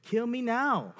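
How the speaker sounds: high, loud comic exasperation; mock despair. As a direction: blurt it out in hammed-up misery. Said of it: "This person would say".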